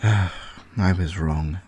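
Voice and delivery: a sigh, then slow and soft; sighing regret. Acted. Paul admits to the computer he misjudged Colin, slow sad sigh. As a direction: admit it quietly, deflated.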